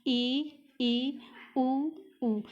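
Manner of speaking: ई and उ drawn out, mouth nearly closed; teacher showing the closed vowels ई and उ; vowel demo. Shown as a demonstration. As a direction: say ई, ई, उ, उ as slow isolated vowels. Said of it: "आप इसे बोलकर ज़रूर देखें".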